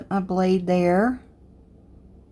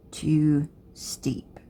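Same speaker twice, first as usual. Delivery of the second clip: whispered aside; 3 semitones lower, 3 dB quieter than usual. Real, not acted. Murmured aside while working.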